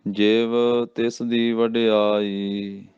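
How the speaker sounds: slow measured intoning; slow recitation. Shown as a demonstration. Teacher intoning the verse slowly for students. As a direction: draw the phrase out evenly. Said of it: "ਇਹ ਧਿਆਨ ਰੱਖਣਾ".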